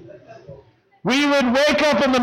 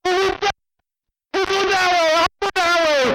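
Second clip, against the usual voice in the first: mock eager chase; 9 semitones higher than usual. Beaker feigning chase, high pitch.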